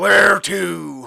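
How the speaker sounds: hefty, big, rasping, rough pig creature voice. Narrator voicing a pig character speaking to the party, in a big deep voice. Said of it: "he says in a big, deep voice".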